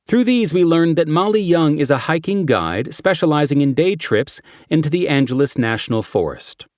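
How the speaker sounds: brief the team like a cop; briefing detective voice. Acted. Character briefing quote.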